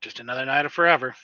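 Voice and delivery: raspy, weary voice; low raspy voice. Acted. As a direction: rasp it out low and tired. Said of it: "like, a low, raspy voice".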